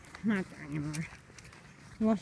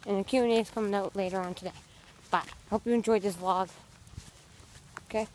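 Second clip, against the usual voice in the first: vlog outro; 3 dB louder than usual. Acted.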